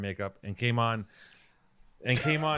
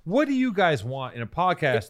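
raised, exasperated retold question; 4 semitones higher, 3 dB louder than usual. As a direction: ask it fed up, slightly higher. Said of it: "just got exasperated and said".

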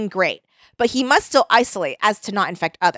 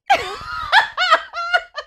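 shrill high laugh with a yelp; high shrieking laugh. Real, not acted. Laughs after reading.

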